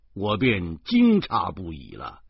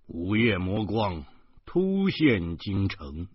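newspaper headline read; slower than usual. Pretend. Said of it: "报纸上肯定会出现这样的题目".

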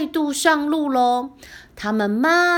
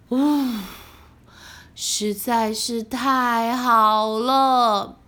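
relieved sigh; 4 semitones lower, slower than usual. Acted. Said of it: "小红松了一口气".

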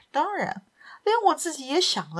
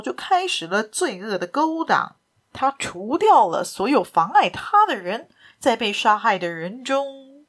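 confident, rousing. Acted. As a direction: condemn the villain with firm conviction. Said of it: "以坚定的自信和高昂的神态说".

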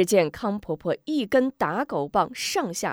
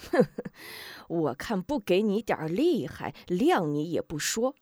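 cold sneer. Acted. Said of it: "一声冷笑".

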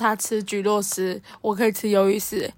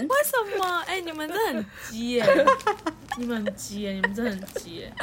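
talking through a mouthful; words round a bite of squid; mouth full; 3 semitones higher, 4 dB quieter than usual. Real, not acted. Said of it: "他现在很努力的不要吃出声音".

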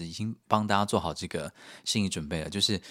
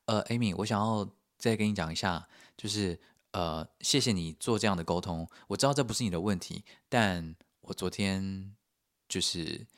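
earnest sincere thanks; 3 dB quieter than usual. Retold or imitated. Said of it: "我认真的看着他的双眼".

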